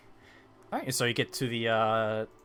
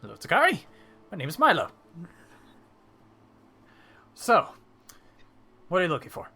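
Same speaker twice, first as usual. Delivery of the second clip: higher, louder merchant's greeting; welcoming shopkeeper; 5 semitones higher, 5 dB louder, faster than usual. Acted. Merchant meets Takari in his shop, welcoming shopkeeper. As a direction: introduce yourself brightly to a new customer, pitched up.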